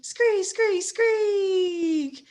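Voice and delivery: high, squeaky rat screeches; rat squeaks. Acted. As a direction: screech it like a swarm of rats. Reader voices rats squeaking.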